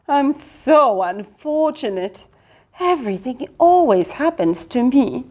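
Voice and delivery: mild wail. Acted. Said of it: "wailed Winston".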